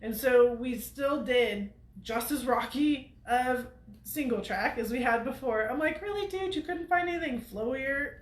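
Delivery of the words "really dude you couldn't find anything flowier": exasperated. Retold or imitated. Mock complaint to riding buddy.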